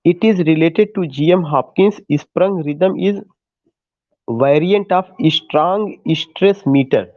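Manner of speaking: very slow, word by word, for note-taking; slow dictation. Shown as a demonstration. Teacher dictating to students taking notes, very slow. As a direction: spell it out so students can write.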